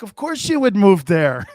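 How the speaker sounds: amused wife, laughing as she says it. Retold or imitated. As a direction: laugh through it as his wife. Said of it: "She's like".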